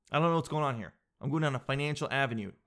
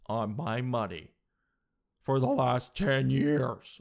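smug braggart; 3 dB louder than usual. Acted. Mock bragging barber character.

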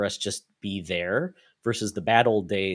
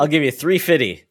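loud, higher comic catchphrase voice; South Park quote impression; 6 semitones higher, 9 dB louder than usual. Co-host quoting an old South Park bit, loud higher mock voice. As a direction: belt out a cartoon catchphrase. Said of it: "old South Park reference".

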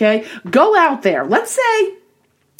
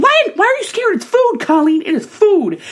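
friends incredulous; 7 semitones higher than usual. Retold or imitated. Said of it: "They're like".

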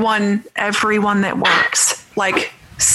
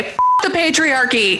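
playful, raised-pitch defiance; a pretend protest chant, pitched up; mock rallying cry; 6 semitones higher than usual. Girls standing up against men, playfully defiant. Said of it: "When they stand up and say".

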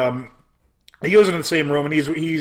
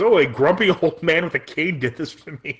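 laughing through the quote. Retold or imitated. Retelling patient's funny line.

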